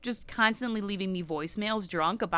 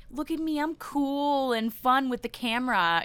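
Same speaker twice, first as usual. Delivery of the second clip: mocking fake bubbly; 6 semitones higher than usual. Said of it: "she tries too hard to be like".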